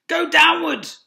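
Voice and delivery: high, loud command; ordered. Acted. Fox ordering family downwards, loud command. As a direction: bark the order. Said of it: "ordered Mister Fox".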